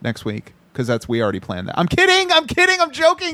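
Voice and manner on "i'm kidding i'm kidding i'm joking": squealed, laughing "just kidding"; high laughing protest. Real, not acted. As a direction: blurt it out high and giddy. Teasing after a shock.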